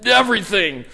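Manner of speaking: high, loud, complaining wail; whining. Retold or imitated. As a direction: moan like a fed-up crowd in the desert. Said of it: "the Israelites were whining and whining".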